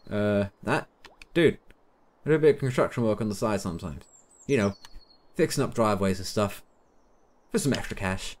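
lightly put-on American accent; casual guy, imitating an American. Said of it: "gone into some sort of weird American accent with him".

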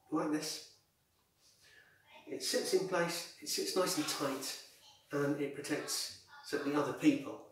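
muffled behind cloth; speaking through fabric; through a face mask. Real, not acted. Seen 3: blue tube scarf covers mouth and nose throughout labelled words.

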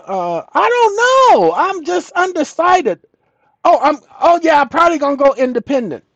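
high, airy dithering voter voice; mocking ordinary voters, high and dithering; mock clueless voter. Mock voter chatter dialogue.

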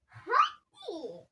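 a pushy hadi; urging. Real, not acted. Urging the other child to play.

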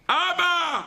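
put-on high, loud child calling abba; child's cry. Children scream for their father behind the door, high cry.

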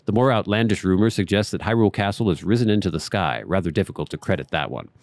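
measured, storybook read of the diary; reading a journal aloud. Acted. Gamer reading a character's journal to viewers, measured read. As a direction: read the old scholar's notes like a letter.

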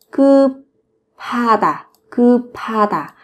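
급하다 slowly, linked into "geu-pha-da"; linked aspirated sound. Shown as a demonstration. Teacher showing learners the sound linking, 급하다 slow with aspirated "pha". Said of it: "Nối âm lên thành âm".

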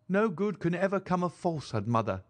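lightly voiced calm daughter; calm, clear voice. A narrator's reading. Daughter urges her mother to be frank, calm and clear. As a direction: say it calmly and clearly. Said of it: "spoke in a calm, clear voice".

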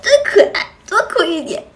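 high-pitched mock delight; teasing fan coo. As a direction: mimic fans squealing over someone crying. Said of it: "我也哭". (高音调模仿粉丝觉得可爱的起哄)

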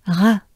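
just breathe out "R"; whispered French R. Shown as a demonstration. Teacher demonstrating the breathy R in a whisper. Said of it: "you exhale".

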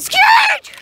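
very high startled cry; scared yelp. Real, not acted. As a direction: yelp in sudden fright. Bumpy ride, sudden fright.

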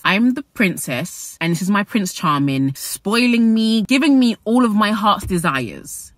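lightly voiced dreamy princess; a hint of a spoilt girl bragging; mock princess. Vlogger mocks the princess narrative, light dreamy princess. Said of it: "setting a narrative of".

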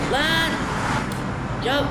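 high, loud sharp cry of alarm; startled yell. Real, not acted. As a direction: shout out in shock. Sudden game mishap.

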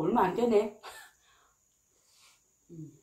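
chewing while talking; talking with food in mouth; mouth full of rice. Real, not acted. Seen 0: Spoons rice into mouth mid-speech, then chews with full mouth.

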